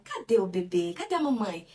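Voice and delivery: sing-song peekaboo questions; playful call to the baby; talking to a baby. Shown as a demonstration. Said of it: "eu falo". (brincando de esconde-esconde com o bebê)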